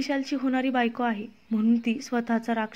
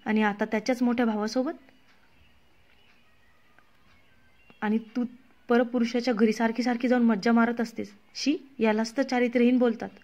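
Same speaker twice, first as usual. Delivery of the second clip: contemptuous. Acted. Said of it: "Priya फार तुसडेपणाने म्हणाली".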